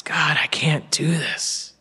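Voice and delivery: slow, subdued imitation of despair; understated tearful plea, nearly whispered; crying out. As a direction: act out a hushed, defeated prayer. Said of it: "he's crying out to God".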